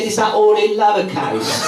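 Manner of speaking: nephew voice. Retold or imitated. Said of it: "He said".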